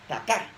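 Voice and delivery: "taká" stressed on the final A; acento en la última A. Shown as a demonstration. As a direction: land the stress of "taká" on its last syllable. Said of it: "un acento en la última A". ("taká" con el acento en la última A)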